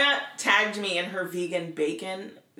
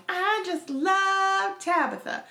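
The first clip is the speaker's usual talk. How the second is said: put-on little girl voice; 10 semitones higher, much slower than usual. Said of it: "she's like".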